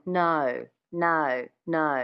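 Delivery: "No" with a small schwa gliding into the O; Aussie O sound. Shown as a demonstration. Coach demonstrating Australian twang, "No" with schwa before the O. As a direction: say each "No" separately, with Australian twang. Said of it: "Adding that little schwa ... that Australian twang".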